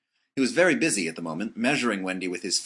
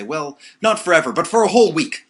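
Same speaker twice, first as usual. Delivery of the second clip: stern relenting; 9 semitones higher, 11 dB louder than usual. A narrator's reading. Peter relenting, still stern.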